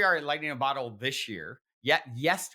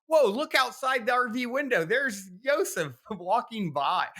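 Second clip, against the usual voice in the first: much higher and louder, amazed outburst; retold excited exclamation; 11 semitones higher, 6 dB louder, slower than usual. Friend spots Yosef outside the RV window, retold excitement. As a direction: imitate a friend calling out an unbelievable sighting.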